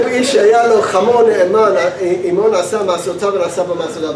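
fast Hebrew reading; fast Hebrew text reading; reading aloud. Acted. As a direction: rattle through the text quickly.

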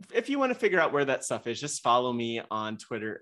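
breathless, rushing through; winded, running out of air; out of breath. Real, not acted. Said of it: "oh, I'm out of breath now".

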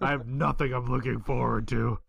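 mopey old man, lightly voiced; a hint of a gloomy old grump; sad old man voice. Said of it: "It says a sad old man".

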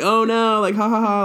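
high, loud mock-laughing cry; playful "oh no" with a put-on laugh; imitated laughing. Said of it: "like, laughing".

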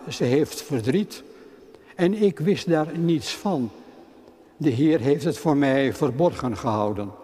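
measured, solemn reading of the Bible passage; scripture reading. Acted. Lector reading scripture to the congregation, measured and solemn. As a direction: read it out like a lector in church.

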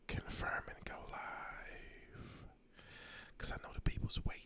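spooky Halloween whisper; creepy whisper. Pretend. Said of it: "that's my Halloween voice".

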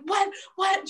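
high yelped disbelief; mock shocked mom. Mom interrupted at work by the call, mock shock.

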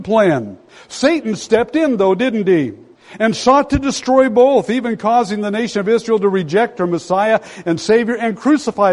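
sustained high pitch, urgent and driving; impassioned preaching. Real, not acted. Preacher telling how Satan sought to destroy God's plan, impassioned. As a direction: keep the voice lifted, pressing on to a peak.

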